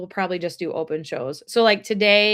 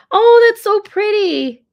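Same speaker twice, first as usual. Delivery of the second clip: touched gasp; 13 semitones higher, 11 dB louder, slower than usual. Real, not acted. Moved by a viewer's gift.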